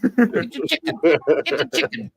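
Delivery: put-on southern accent. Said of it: "do it in a really southern accent".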